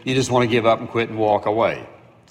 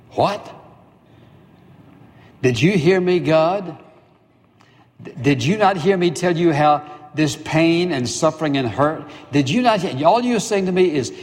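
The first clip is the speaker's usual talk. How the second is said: indignant protest; 4 semitones higher than usual. Acted. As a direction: push back at God in disbelief. Paul protests God's answer.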